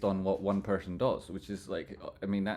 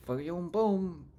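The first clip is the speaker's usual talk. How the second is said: hype; 9 semitones higher, slower than usual. Real, not acted. Hyped price call.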